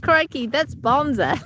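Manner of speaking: put-on light Tasmanian accent, playful. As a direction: Tasmanian accent with an Aussie twang. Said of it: "that did sound, sound Tasmanian".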